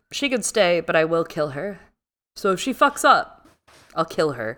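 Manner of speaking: hammed-up threat to kill; threatening witch. Host voicing the witch Ruda, mock menacing threat. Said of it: "Ruda is like".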